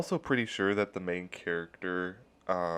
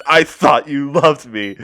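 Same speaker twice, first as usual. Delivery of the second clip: hurt; 6 semitones higher, 13 dB louder, slower than usual. Acted. Celebi rages at Morgan.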